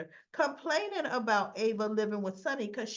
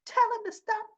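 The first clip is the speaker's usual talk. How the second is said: much higher, louder yelling; mock shout; 12 semitones higher, 7 dB louder than usual. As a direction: yell it at him in a panic. Sam yelling at Jason.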